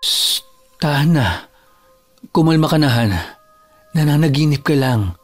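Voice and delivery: hushing, reassuring tone; calm them down gently, phrase by phrase; soothing. Acted. Boyfriend calms his girlfriend after a nightmare, soothing.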